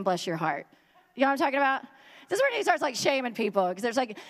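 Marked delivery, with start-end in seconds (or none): 0.0-0.7 mock sweet bless your heart. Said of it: "This is Jesus' way of saying".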